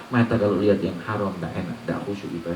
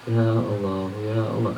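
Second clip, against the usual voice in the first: tearful pleading prayer. Shown as a demonstration.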